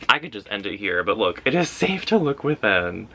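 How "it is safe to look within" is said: higher, lively affirmation; emphatic affirmation. Real, not acted. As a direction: read it out with a lifted voice. Affirmation read, then repeated slower.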